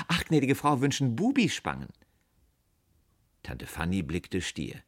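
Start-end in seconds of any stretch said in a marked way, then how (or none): 0.1-1.9 high, lively salesgirl with a smile; smiling. A narrator's reading. Salesgirl catching on to the wish, smiling. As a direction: say it brightly through a smile, pitched up. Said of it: "sie sagte lächelnd".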